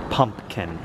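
"Pumpkin" said as if congested; imitated kid's stuffy "Pumpkin"; stopped-up pumpkin. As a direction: say "Pumpkin" all stopped up, like a little kid. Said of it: "like you're all stopped up".

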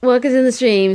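words mangled by a yawn. Real, not acted. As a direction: talk through a big yawn. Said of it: "Sorry, I just yawned".

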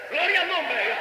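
high-pitched burst of praise; exclaimed praise. Real, not acted. Preacher breaks from his story to glorify God, exclaimed praise. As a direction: cry it out high, falling at the end.

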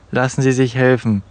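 usual speaking voice

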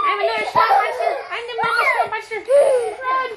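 mock-scary mama monster; playful monster voice. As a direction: growl it out playfully. Playing monster with kids.

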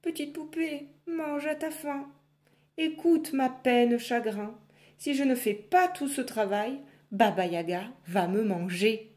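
put-on a touch of weeping in a young girl's voice; crying girl. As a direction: beg through mild tears. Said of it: "lui dit en pleurant".

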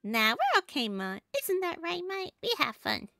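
put-on light Southern accent for a kid. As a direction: brush off Ma's worry with a Southern twang. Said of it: "trying my best to talk in a southern accent".

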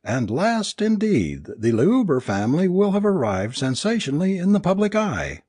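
high-pitched, anguished mock fanfare; bitter cry. A narrator's reading. Alice mocks her husband's stage plan, crying bitterly. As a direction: cry it out like a scornful showbill announcer. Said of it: "crying bitterly".

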